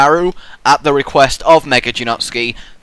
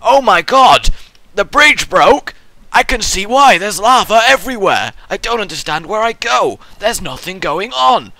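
hammed-up viewer lost in lava; mock panic; 5 semitones higher than usual. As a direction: panic up high over the lava. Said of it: "and you're like".

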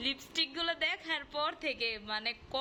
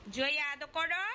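imitating the child. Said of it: "যে আবার বলে".

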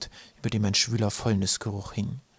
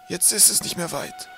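high-pitched gentle encouragement; encouraging; 8 semitones higher than usual. A narrator's reading. Professor cheering Twig on, encouraging. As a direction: coax him along in a high voice. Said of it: "sagte der Professor aufmunternd".

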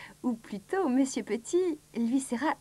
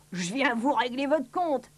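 slow, drawn-out threat; a touch of a rude bully, slowly; lightly voiced Monsieur Malpoli. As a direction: draw out the threat.

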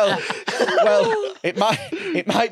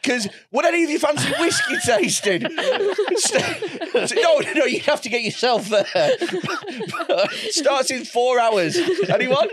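laughing mock tout; 5 semitones higher than usual.

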